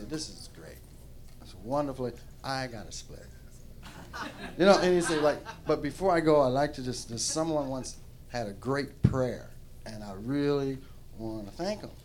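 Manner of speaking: casual God voice, understated; God impression. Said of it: "this is just my impression".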